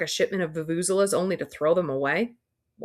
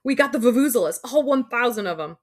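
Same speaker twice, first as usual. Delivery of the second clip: loud, higher triumphant crow; 6 semitones higher, 5 dB louder than usual. Acted. Student crowing in triumph to the teacher, loud. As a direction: gloat to the teacher. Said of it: "Parker crows".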